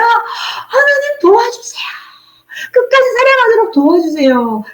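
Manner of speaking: high, pleading prayer for help; begging God to help her love to the end; desperate plea. Retold or imitated.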